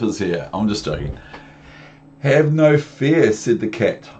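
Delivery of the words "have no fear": booming cat. Acted. Cat reassures.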